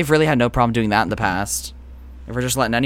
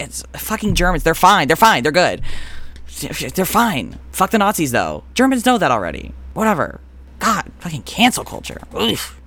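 exasperated rant; 6 semitones higher than usual. Real, not acted. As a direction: rattle out exasperated reassurances, pitched up. Comic rant defending Germans, then exasperated.

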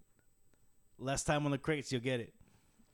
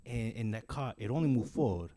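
put-on Mexican-accented friend giving advice; Latin accent; 3 semitones lower than usual. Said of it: "Mexicans saying, uh, like, different words".

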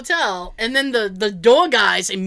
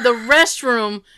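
"restroom" said slowly and clearly; emphatic repetition; 4 dB louder, slower than usual. Retold or imitated. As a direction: spell out "restroom" slowly for someone who didn't understand. Repeats word for uncomprehending concierge.

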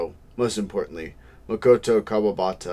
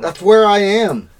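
high silly voice; 12 semitones higher, 12 dB louder than usual. Pretend.

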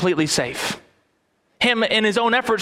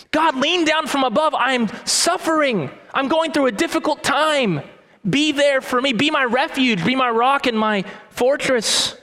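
earnest plea; 5 semitones higher than usual. Acted. Voicing David pleading to God.

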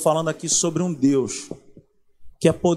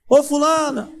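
calling out; 7 semitones higher, 3 dB louder than usual. Retold or imitated. God calling a person.

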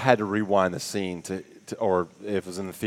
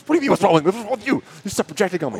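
high, hammed-up indignant yell; a playful imitation of a heated retort; mock yelling back; 9 semitones higher, 3 dB louder, much faster than usual. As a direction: throw it back at him, offended. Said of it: "they're yelling at each other".

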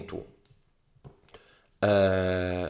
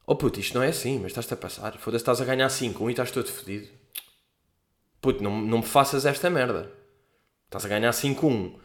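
serious tone. Retold or imitated. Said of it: "com o meu tom completamente sério".

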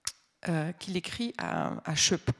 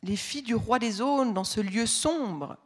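put-on frightened child; 4 semitones higher than usual. Teacher reads the child's lines.

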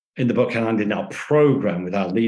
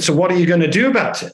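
fast, louder challenge; pushy demand; 5 semitones higher, 4 dB louder, faster than usual. Retold or imitated. Angry manager demanding action, fast and louder. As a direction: press him hard and quick. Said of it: "So he said".

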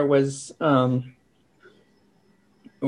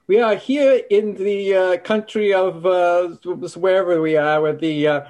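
mock field correspondent, pitched up at the start; hammed-up public radio dispatch; NPR reporter; 4 semitones higher than usual. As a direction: imitate a solemn radio report, hesitating over details. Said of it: "N P R will be like".

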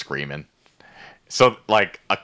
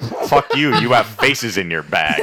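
hammed-up quarrel voice; mock angry retort; 2 semitones higher, 4 dB louder, slower than usual. Retelling a sisters' spat for friends, mock angry.

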